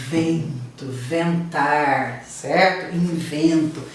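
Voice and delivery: Vento, ventar, Invento said low and drawn out like wind; windy echo. Shown as a demonstration. Teacher imitates the wind sound for the class, low and drawn out. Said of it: "O som do vento".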